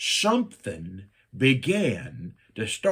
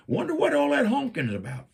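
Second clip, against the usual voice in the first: high, sweet and innocent; mock-innocent high voice; innocent wife; 13 semitones higher, faster than usual. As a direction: play the wife pretending she knows nothing. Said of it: "She's like".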